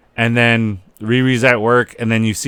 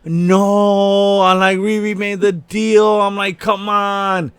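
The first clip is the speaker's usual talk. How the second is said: much higher, stunned protest; shocked disbelief; 9 semitones higher, much slower than usual. Real, not acted. Fan reacting to the twist, high and shocked. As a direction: gasp it out in disbelief. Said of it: "I was like".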